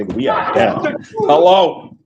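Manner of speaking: a light Thibodeau impression; mock Tom Thibodeau. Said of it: "That's Tom Thibodeau conversation".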